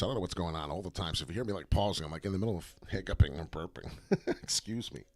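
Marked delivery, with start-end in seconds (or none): none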